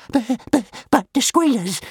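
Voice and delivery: high, frightened dragon whimper; scared dragon whimpering about the squealers, high-pitched. A narrator's reading. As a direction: whimper out the buts in fear. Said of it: "whimpered Toothless".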